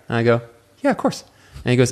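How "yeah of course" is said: put-on eager teen fibbing. Teen self lying to waiter.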